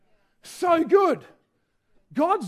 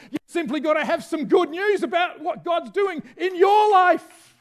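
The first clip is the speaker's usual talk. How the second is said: rising preaching; 4 semitones higher than usual. Real, not acted.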